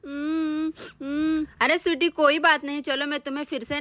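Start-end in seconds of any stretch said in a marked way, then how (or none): 0.1-1.5 crying. Acted. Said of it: "Sweety mummy की डांट सुनकर रोने लगती है".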